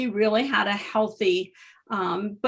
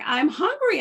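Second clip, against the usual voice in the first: voicing the client; 9 semitones higher than usual. Dying client voiced in story.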